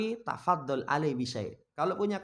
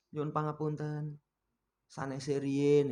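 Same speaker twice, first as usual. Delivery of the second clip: polite refusal; slower than usual. Shown as a demonstration. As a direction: turn him away gently and slowly.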